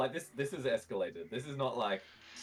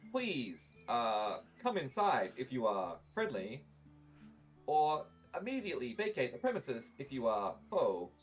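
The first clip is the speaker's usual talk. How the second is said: lightly voiced tinny automaton; a hint of a robot guard; metallic voice filter; 2 semitones higher than usual. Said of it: "tinny, metallic voice".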